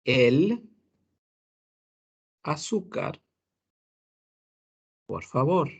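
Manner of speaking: "el azúcar" said as if "la azúcar", the two A sounds run together; wrong feminine reading. Shown as a demonstration. Teacher demonstrating the common slip of students. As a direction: mimic the mistaken "el azúcar, por favor". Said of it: "pensamos que dice".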